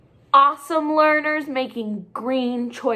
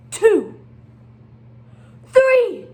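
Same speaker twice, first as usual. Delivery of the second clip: building count; 11 semitones higher, 8 dB louder than usual. Acted.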